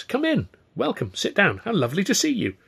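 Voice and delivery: high-pitched, gushing host; politely delighted, voice lifted; effusive welcome. A narrator's reading. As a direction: usher them in with a lilting greeting. Stan welcomes the agents effusively.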